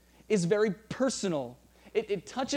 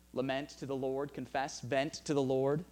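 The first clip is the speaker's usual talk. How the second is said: soft earnest urging; 5 semitones lower, 6 dB quieter than usual. Real, not acted. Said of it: "preacher urging lament softly".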